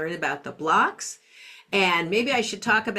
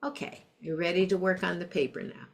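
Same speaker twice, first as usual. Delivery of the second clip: laughing; 5 dB quieter, faster than usual. Retold or imitated. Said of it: "I'd say".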